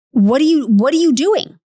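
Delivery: high-pitched, indignant scolding; mock outraged master; exasperated Balaam. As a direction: swoop up in exasperated disbelief. Balaam angrily whipping his donkey again.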